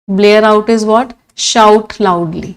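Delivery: very slow question and answer; slow quiz. Shown as a demonstration. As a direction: drag each word out for the class. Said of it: "teacher quizzing and answering". (बहुत धीरे सवाल और जवाब)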